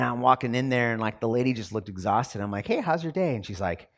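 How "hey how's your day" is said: bright, higher friendly hello; cheery greeting. Retold or imitated. Greeting the cashier.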